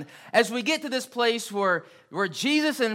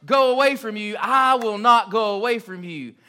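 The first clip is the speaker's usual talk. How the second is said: wholehearted vow; 5 dB louder than usual. Retold or imitated. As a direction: promise it with your whole heart. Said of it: "he meant it as much as he could".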